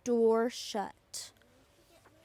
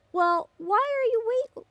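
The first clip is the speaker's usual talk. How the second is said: much higher eager call; cried out; 8 semitones higher, faster than usual. A narrator's reading. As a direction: urge them on, impatient. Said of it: "cried the travelers".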